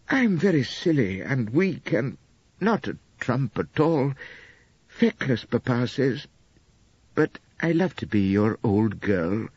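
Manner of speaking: a gentle hint of a doting young wife; lightly voiced young wife, adoring. Narrator voices Elspeth.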